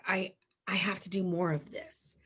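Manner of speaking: hushed, breathless whisper; awed whisper. Retold or imitated. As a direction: whisper it like a secret revelation.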